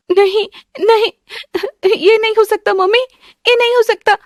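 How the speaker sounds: high, tearful pleading cry; crying in disbelief. Acted. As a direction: break down as the news sinks in. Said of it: "आस्था वो post देखकर रोने लग जाती है". (रोते हुए, ऊँची आवाज़ में इनकार)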